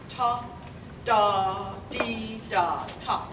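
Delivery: TA, DA, DEE, DA, TA as detached, accented notes; marcato articulation demo. Shown as a demonstration. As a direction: sound out ta, da, dee, da, ta like a band part, drawing out DA and DEE, short final TA. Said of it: "say a ta articulation".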